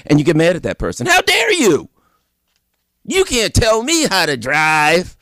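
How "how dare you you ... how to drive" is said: high, offended how dare you; mock-indignant driver; indignant outburst. Driver snaps at the warning.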